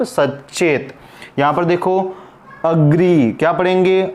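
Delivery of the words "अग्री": अग्री said as "uh-gree"; teacher modelling अग्री, set apart; correct schwa start. Shown as a demonstration. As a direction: open अग्री on a short "uh", not "ay". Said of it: "एग्री नहीं पढ़ेंगे".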